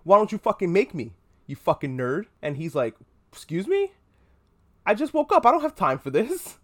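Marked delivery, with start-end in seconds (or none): 0.0-2.3 mock angry mom. Mom escalates against son. 3.3-6.6 indignant son. Retold or imitated. Son protesting to his mom, high and indignant.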